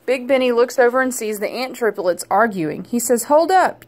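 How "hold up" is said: louder, higher call to stop; a friendly raised call to stop. A narrator's reading. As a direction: break up the squabble with a call. Calls to arguing ants.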